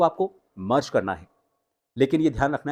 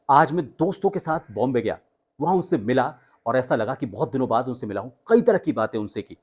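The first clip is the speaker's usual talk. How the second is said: high excited telling. Shown as a demonstration. Coach retells meeting friends in a high, excited voice. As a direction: tell it lifted and eager. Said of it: "ये रहा high".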